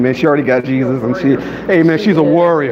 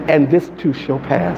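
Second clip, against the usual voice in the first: slow and soft; 3 semitones lower, slower than usual. Shown as a demonstration. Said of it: "You need to practice that".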